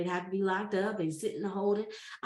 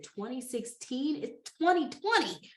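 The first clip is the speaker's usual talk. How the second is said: rising in disbelief, then higher; incredulous; 3 semitones higher than usual. Retold or imitated. She echoes the officer, stunned disbelief. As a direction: question the year, can't believe it.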